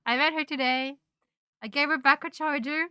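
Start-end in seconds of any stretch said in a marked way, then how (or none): 0.1-1.0 laughing correction. Real, not acted. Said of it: "I met her tomorrow".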